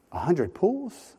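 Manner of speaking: slow, rising disbelief; incredulous echo. Retold or imitated. Preacher echoing the captain's order, slow disbelief. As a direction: repeat it back in disbelief. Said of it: "incredulous echo".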